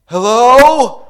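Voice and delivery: high, loud call echoing down; yelled down a shaft. Retold or imitated. Rescuer yelling down the elevator shaft, loud call. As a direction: call up from far away. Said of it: "yell down the shaft".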